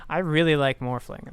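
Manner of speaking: shouted with REALLY stressed; loud declaration. Real, not acted. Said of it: "that might have been very loud".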